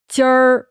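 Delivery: 今儿 with a strong, loud r-coloured ending; erhua demo. Shown as a demonstration. Showing the guest the Beijing erhua, a loud 今儿. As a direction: belt out 今儿 with the curled erhua ending. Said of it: "你刚才说天儿".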